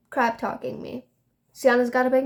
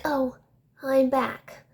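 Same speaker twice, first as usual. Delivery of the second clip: mocking imitation; 3 semitones higher, much slower than usual. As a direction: mimic her announcing her return. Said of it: "And she's like".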